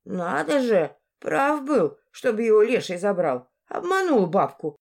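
put-on miffed old woman, ending high-pitched; old woman's voice. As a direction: lightly curse the trickster, then rise to a question. Duped old woman exclaims, then questions.

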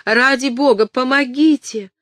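high, loud call for help; cry for help. Acted. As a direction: shout for help to the kitchen. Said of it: "закричала она".

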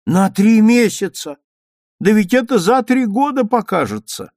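put-on an old woman throwing up her hands; dismayed grandmother. A narrator's reading. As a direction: grandmother shocked at the mother's news.

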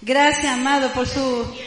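ordinary talk

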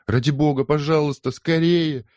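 high, loud urgent begging; desperate begging. Acted. Polly begs the hesitating neighbour to hurry. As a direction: plead with all you have. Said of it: "взмолилась Полли".

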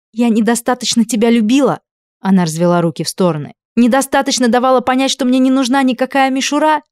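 high, loud, incredulous; furious questions. A narrator's reading. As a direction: throw the questions back at him. Furious, bitter rhetorical questions.

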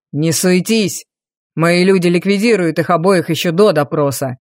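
low, scolding father voice; cold deep reprimand of the son; stern duke. Acted. Duke again.

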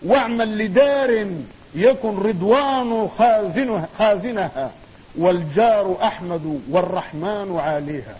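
solemn declaimed Arabic poetry; poem recitation. Acted. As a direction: recite each half-line deliberately, pausing between phrases.

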